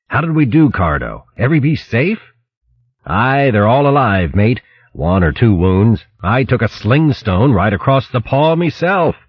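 light mouse-sailor chat; lightly voiced crew mice. Crew mice checking on each other after the fight, lightly voiced.

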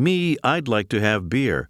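"Me" set up front with emphasis, then falling away; emphatic "me". Shown as a demonstration. Teacher explaining the Norwegian emphatic form, stress on "Me". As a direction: lean on "Me", then let the sentence fall. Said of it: "This is like saying".

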